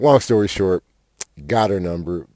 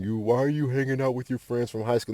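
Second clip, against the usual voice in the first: higher-pitched, lightly put-on business guru voice; Grant Cardone; 4 semitones higher, 4 dB quieter than usual. Business guru questioning time spent with old friends, lightly imitated. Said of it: "Grant Cardone".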